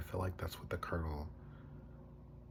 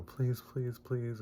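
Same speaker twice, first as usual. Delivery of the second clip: high-pitched imitated begging; retold desperate plea; pleading; 7 semitones higher, much slower than usual. Retold begging for his life.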